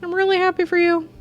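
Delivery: put-on cheerful young girl character voice; Maya voice. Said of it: "This is Maya from Ace Attorney".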